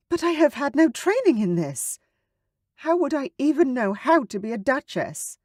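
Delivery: put-on high, anxious young woman; trembling. Sarah doubting she can be duchess, anxious. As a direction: let the nerves shake through. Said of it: "She was trembling now".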